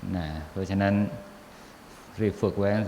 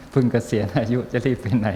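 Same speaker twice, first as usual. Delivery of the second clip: louder, laughing through the words; amused teasing; 2 semitones higher, 5 dB louder than usual. Real, not acted. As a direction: tease with a laugh in the voice. Quoting layman, amused.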